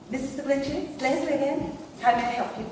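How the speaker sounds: put-on posh receptionist greeting; posh phone voice. Receptionist answering the hotel phone, rather posh. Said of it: "I decided I'd be rather posh".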